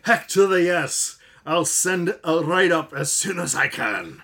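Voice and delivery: lightly voiced listener impression; Joshua imitation. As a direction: read it like Joshua would say it. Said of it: "you were doing a good Joshua imitation there".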